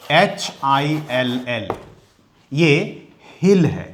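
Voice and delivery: letters spelt slowly, then हिल with a clear h; spelling out slowly. Shown as a demonstration. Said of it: "इस एच का उच्चारण".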